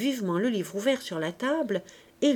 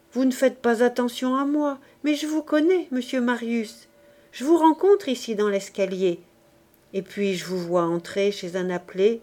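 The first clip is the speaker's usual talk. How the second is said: trying to sound sweet. Acted. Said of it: "Sa voix cherchait à être très douce et ne parvenait qu'à être basse".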